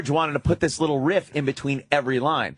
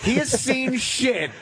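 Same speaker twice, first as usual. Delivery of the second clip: emphatic rant; 6 semitones higher than usual. Real, not acted. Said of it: "emphatic rant".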